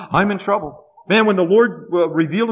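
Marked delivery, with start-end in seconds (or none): 0.0-0.8 mock alarm. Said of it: "they're gonna say".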